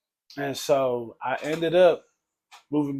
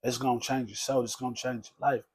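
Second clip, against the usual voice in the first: mild imitation of his preaching. Cousin preaching to the narrator, lightly voiced and earnest. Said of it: "that's the way he talked".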